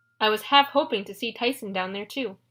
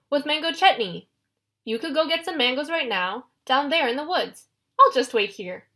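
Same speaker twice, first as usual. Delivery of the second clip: panicked babble; 2 semitones higher than usual. Acted. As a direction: talk fast to save your skin. Grover babbles to save himself.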